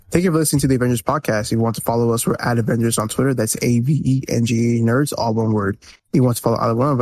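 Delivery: brisk confident outro read; podcast outro read. Pretend. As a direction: rattle off the sign-off smoothly. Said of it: "that's the show".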